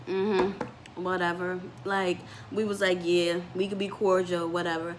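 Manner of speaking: low, soft bored brush-off; mock-indifferent mumble to the counselor; dismissive whatever. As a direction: shrug it off like a sulky teen.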